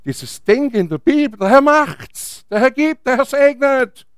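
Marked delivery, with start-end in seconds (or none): 1.4-4.1 high, drawn-out pious slogans; mock pious confidence. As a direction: parrot stock church phrases, stretched and raised. Imitates a pious passive mindset. (übertrieben fromm und gedehnt)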